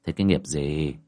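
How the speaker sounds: normal talking voice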